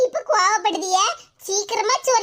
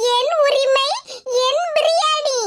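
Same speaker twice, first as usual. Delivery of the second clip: cheeky claim; 2 semitones higher, slower than usual. Acted. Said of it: "அதனால தான் சொன்னேன்".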